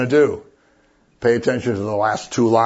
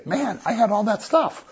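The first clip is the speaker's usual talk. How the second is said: mock regretful soul; 9 semitones higher, 5 dB quieter than usual. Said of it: "you have all eternity to say".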